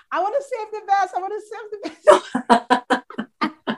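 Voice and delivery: excited self-quote. Retold or imitated. Host imitating her own eagerness to save the best guest. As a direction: gush like you can't wait. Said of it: "I've been like".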